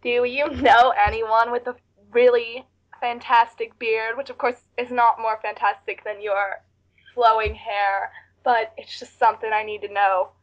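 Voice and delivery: slow, amateur Southern drawl; shaky-confidence attempt at Southern speech; attempted Southern accent. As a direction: have a go at a Southern accent, slowly. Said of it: "You have to ask him in a southern accent".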